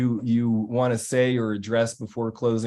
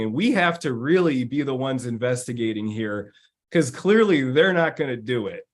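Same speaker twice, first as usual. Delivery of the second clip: higher, a bit louder teammate laying out the plan; rally the team with a higher, firm voice; determined teammate; 3 semitones higher, 3 dB louder than usual. Retold or imitated. Teammate rallying the team to fix the client problem, higher.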